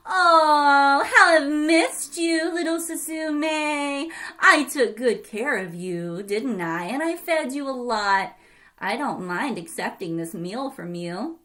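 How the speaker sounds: fake sweetness. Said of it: "said sweetly over and over again".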